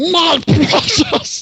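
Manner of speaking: shrill, very high, loud screech. Voicing a character inspecting a hand with a ring: screaming. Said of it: "and then he screams".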